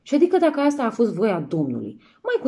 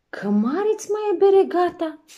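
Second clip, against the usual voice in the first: father exclaiming; 10 semitones higher, 4 dB louder than usual. Acted. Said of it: "Și zise".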